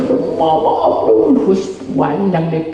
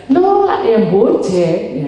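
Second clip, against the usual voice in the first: exclaimed remark; 3 semitones higher, much slower than usual. Retold or imitated.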